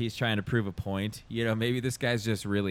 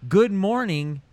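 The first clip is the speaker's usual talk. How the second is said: high bright greeting; 9 semitones higher, 6 dB louder, slower than usual. Retold or imitated. Quoting a greeting.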